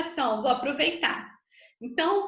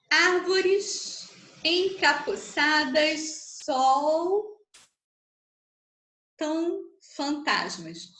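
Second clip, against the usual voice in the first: very slow, drawn-out verse with long pauses; syllable-by-syllable scansion; much slower than usual. Shown as a demonstration. Teacher counting a verse's syllables for students, slowly scanned.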